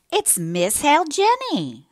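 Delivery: high, loud, drawn-out call to Jenny. A narrator's reading. Landlady calling her daughter Jenny, loud high call. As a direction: call the name across the house. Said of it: "calling to her daughter".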